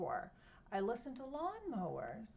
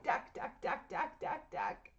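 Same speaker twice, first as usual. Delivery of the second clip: softer jackhammer; 5 semitones higher than usual. Shown as a demonstration. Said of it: "The jackhammer hurts my ears".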